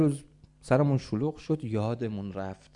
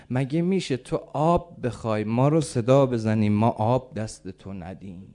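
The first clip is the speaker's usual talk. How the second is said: slow, impassioned mild lament; retold tearful plea; 3 dB louder than usual. Daughter tearfully answering Haj Marzuq, retold emotional plea. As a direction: plead slowly with a touch of tears. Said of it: "زد زیر گریه".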